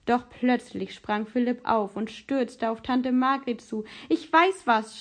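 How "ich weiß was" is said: higher, louder burst of discovery; boy's eager, raised-voice outburst; excited cry. A narrator's reading. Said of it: "schrie er".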